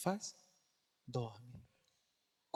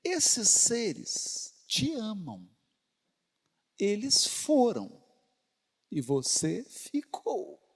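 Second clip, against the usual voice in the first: slow heartfelt; 4 semitones higher, much slower than usual. Real, not acted. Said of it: "slow heartfelt appeal to listener".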